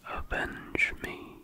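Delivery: slow whispered rasp, words breaking apart; a ghost scraping out a broken plea; raspy broken voice. Acted. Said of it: "it responded in a raspy, broken voice".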